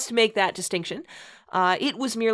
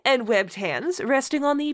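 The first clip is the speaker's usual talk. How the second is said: mock-grand read-aloud, stifling laughter; story narration; 3 semitones higher than usual. Host reading a bad fanfic to co-host, mock-solemn narration. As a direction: read the purple prose with a straight face.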